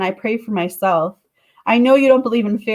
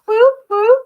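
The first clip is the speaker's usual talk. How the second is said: cheering whoop; 12 semitones higher, 6 dB louder than usual. Real, not acted. Reader cheers at a good reading.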